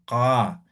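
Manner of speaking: "Ka" with the k made far back in the throat; Aymara post-velar Q. Shown as a demonstration. Teacher showing the Aymara Q to students, a throaty "Ka". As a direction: say "Ka" from the throat without effort. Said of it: "Y su sonido es ka".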